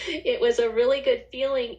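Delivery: laughing through the words; real laugh breaking into the repeat. Real, not acted. Telling the host about her good feeling, laughing.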